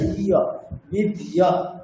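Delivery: ই, অ, বিদ্যা drawn out very slowly; slow breakdown of বিদ্যা; slow sound-out. Shown as a demonstration. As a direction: spell out ই, অ then বিদ্যা. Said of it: "ওখানে স্পষ্ট বোঝা যাচ্ছে".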